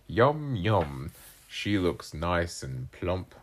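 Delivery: slow, relishing cat voice; drawn-out, scheming fluffy cat; lightly voiced cat. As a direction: savour it like a hungry cat. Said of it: "wrong voice".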